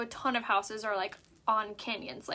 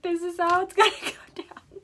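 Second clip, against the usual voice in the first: higher mocking echo, laughing midway; laughing mimicry; 7 semitones higher, 4 dB louder than usual. Wife mocking her husband's plan, laughing echo. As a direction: parrot him back through laughter. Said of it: "I'm like".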